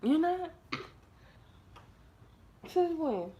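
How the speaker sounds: high, mock-doubtful teasing; teasing disbelief. Real, not acted. Teasing a child about pranks.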